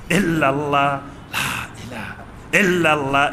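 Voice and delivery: loud chanted ইল্লাল্লাহ; loudly. Shown as a demonstration. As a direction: project ইল্লাল্লাহ strongly after the whisper. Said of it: "দ্বিতীয়টা জোরে জোরে".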